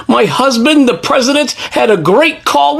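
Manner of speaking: mock Melania accent, slightly slowed on "great call"; mocking her accent. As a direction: parody her accent with a sneer. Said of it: "she really has the ugliest accent".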